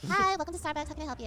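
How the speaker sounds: barista greeting. Acted. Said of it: "okay, we're gonna do a scene".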